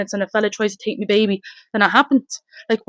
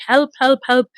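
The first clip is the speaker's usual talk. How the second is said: retold cry for help; 3 semitones higher than usual. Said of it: "just screaming, "Help".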